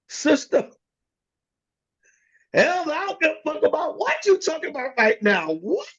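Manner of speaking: mock angry husband. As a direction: tell the sister off in a put-on voice. Counseling, husband snaps at sister.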